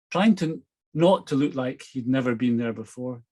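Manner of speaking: steady storyteller reading a novel aloud; story narration. A narrator's reading. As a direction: read the chapter like an audiobook. Reads novel chapter aloud.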